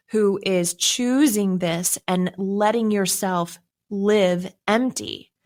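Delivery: slow, measured mild firmness; firm parental refusal. Retold or imitated. Parents telling their daughter she is not coming home, firm and deliberate. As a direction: lay down the law slowly, word by word.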